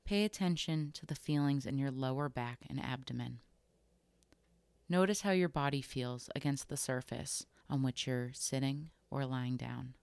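calm, unhurried body scan guidance with long pauses between phrases; guided meditation. Acted. Host guiding listeners through a body scan, calm guided meditation. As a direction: gently lead them through it, leaving room to notice.

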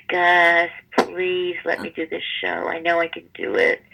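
imitated wheedling, pitched a little up; whining plea. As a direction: beg like a whiny kid. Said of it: "and whine, whine, whine".

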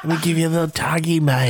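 Mister Everest voice. Acted. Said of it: "so much fun to do that voice".

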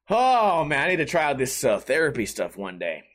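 ordinary talk, nothing marked

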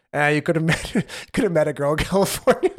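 laughing through the words; laughing wife quote. Retold or imitated. Wife teasing husband about staying in California, laughing. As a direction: chuckle as you tease him. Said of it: "she's like".

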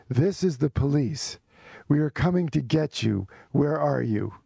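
imitating a stern police officer; measured, lightly officious announcement; serious officious voice. Police phoning to come and get him, serious and officious. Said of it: "very serious, officious voice, speaking Italian".

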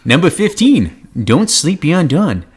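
put-on high, slow old prospector voice; old-timey prospector voice. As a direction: drawl it like a grizzled old miner. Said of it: "in that prospector voice".

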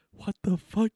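high and loud, caught off guard; incredulous what the fuck; stunned disbelief. Retold or imitated. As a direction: react like you can't believe what you heard. Says it to himself, disbelieving.

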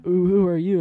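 a lightly voiced old woman, surprised. Guard's wife meeting the ex-con at her door, mock old woman. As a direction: ask who he is like a startled elderly lady. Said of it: "Why does she sound like an old woman?".

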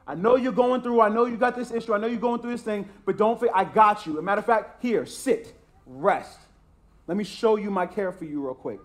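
tender voice of God reassuring his people; God's reassurance. Acted. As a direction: soothe them as God would, gently. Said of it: "God says".

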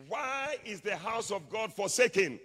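loud, high, slow challenge; wild demand. Acted. Preacher voicing the man of God to the rulers, wild. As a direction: hurl the question out in outrage. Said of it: "The man of God became wild".

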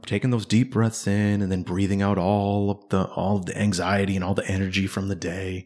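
lightly voiced breathing instructor, drawing out the body parts; guided meditation. Friend imitating a recording that releases the day's anxiety, meditation-guide voice. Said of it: "self-guided imagery or the meditation".

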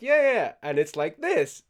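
eager explaining. Retold or imitated. Acting out his own explaining.

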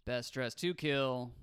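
slow, flat robot voice. Real, not acted. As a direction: announce it like a robot. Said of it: "I said it like a robot".

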